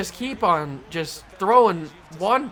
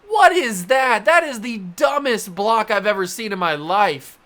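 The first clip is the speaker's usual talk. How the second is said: angry rant; 2 semitones higher, 4 dB louder than usual. Real, not acted. Ranting at the block.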